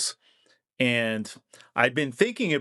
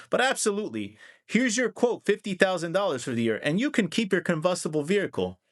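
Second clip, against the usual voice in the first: mock insurance salesman; 2 semitones higher than usual. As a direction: play a fake-friendly insurer selling you a pricey quote. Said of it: "they suddenly say".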